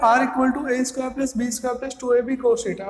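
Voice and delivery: each word drawn out slowly for students to write; slow dictation. Shown as a demonstration. Teacher to class while writing formula, slow dictation.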